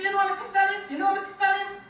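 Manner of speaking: high, loud, repeated angry demands; retold angry shouting. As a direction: snap at her like a bullying driver. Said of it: "he shouted at me like that".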